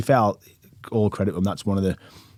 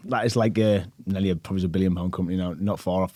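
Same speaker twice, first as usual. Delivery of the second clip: ordinary talk, nothing marked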